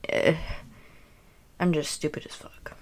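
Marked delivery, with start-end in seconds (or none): 1.6-2.7 whispered. Real, not acted. Self-mocking aside.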